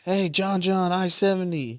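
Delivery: mock fan voice. Fan voiced in podcast banter.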